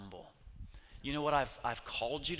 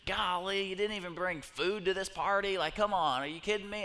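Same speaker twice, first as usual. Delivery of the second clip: higher, whiny griping; complaining crowd; 6 semitones higher than usual. Acted. The Israelites complaining to Moses in the desert, whiny. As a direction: gripe at the leaders like fed-up travelers. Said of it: "the people are complaining".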